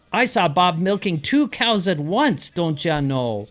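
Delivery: Minnesota phrase demo. Shown as a demonstration.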